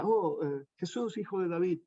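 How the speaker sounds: quiet, casual calling of the name; just saying it. Shown as a demonstration. Preacher showing the cry without desperation, quietly. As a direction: say it without urgency. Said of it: "No, no era tan solo que decía".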